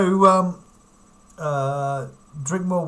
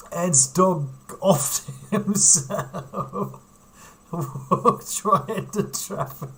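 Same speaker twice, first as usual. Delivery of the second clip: laughing; 3 semitones higher, much slower than usual. Real, not acted. Laughing at dark news.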